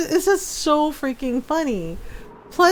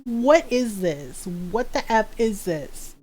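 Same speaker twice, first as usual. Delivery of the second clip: slow, drawn-out incredulous question; stretched, mock-appalled; mock disbelief; 3 semitones lower, 4 dB quieter, slower than usual. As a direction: spell out your disbelief slowly. Mock disbelief at what she found.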